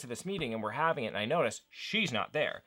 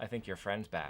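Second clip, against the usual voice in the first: imitated smug tone, lower and quieter; 4 semitones lower, 10 dB quieter than usual. Retelling how she answered, imitating a smug remark. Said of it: "real smugly over there and looks back at me and goes".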